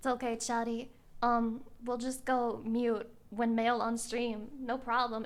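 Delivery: soft, low mommy voice. Acted. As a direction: soothe chat like a mother. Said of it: "slide into this voice".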